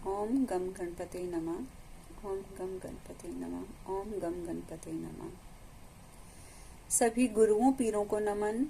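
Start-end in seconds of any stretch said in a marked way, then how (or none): 0.1-5.3 soft, hushed repeated mantra; mantra recitation. Real, not acted. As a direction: intone the invocation softly, like a private prayer. Repeated invocation mantra to Ganpati. (धीमे स्वर में मंत्र जाप)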